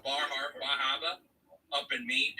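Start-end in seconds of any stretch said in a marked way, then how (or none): 0.6-1.2 New England "Bar Harbor" with all R's dropped; Boston-style accent. Shown as a demonstration. Explaining how Maine locals say the town, New England accent. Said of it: "like being called Bar Harbor".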